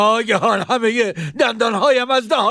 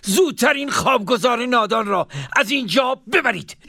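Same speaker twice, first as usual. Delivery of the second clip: shout. Acted. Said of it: "رو به حاجب فریاد زد".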